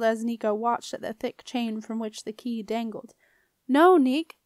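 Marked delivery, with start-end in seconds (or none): 3.7-4.4 high, loud shout to stop; urgent raised-voice "no"; shouted protest. A narrator's reading. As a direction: shout to halt him at once. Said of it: "shouted Septimus".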